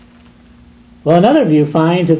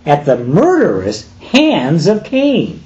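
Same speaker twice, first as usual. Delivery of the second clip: ordinary delivery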